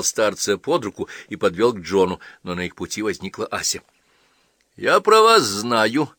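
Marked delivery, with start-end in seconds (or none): 4.8-6.1 put-on higher, louder, drawn-out child's line; warning girl. A narrator's reading. Girl tells the old priest she knows of him, warning. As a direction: voice a forward little girl. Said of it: "предупредила она отца Тихона".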